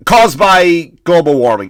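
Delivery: hammed-up parroting of the official line; mocking the governor. Mocking the governor's excuse for the fire, slow and loud. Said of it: "That's what he said".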